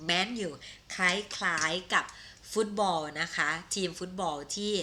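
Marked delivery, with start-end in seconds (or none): 0.1-0.5 "menu" modelled as MEN-yoo; English pronunciation. Shown as a demonstration. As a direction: model "menu" for learners, short e then yoo. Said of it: "ภาษาอังกฤษออกเสียงว่า". (ออกเสียง "menu" แบบอังกฤษ แมน-ยู)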